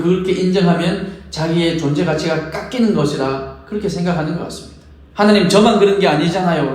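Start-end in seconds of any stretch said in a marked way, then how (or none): 5.1-6.7 protesting. Retold or imitated. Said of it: "라고 항변합니다".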